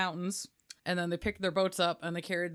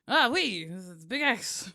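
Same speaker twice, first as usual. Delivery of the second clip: put-on goofy French accent; 3 dB louder, slower than usual. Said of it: "just this goofy little French accent".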